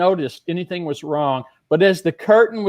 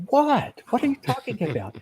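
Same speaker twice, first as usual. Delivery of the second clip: put-on high, fast, puzzled girls' voice; girls' reply; 6 semitones higher, 5 dB quieter than usual. The two girls baffled by Ron, mock high puzzled voice. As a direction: squeak out confused girls. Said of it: "they go".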